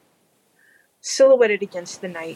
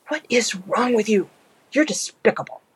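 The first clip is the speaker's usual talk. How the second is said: indignant; 5 semitones higher than usual. Acted. Angel reproaching demon.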